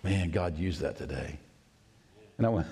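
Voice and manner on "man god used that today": 1 retold tearful words. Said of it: "he said, in tears".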